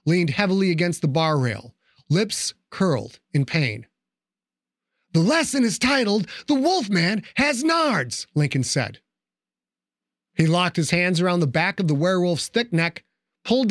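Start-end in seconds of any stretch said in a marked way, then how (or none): 5.1-8.3 mocking announcement. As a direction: announce it like a smug teacher. Mocking the beaten werewolf.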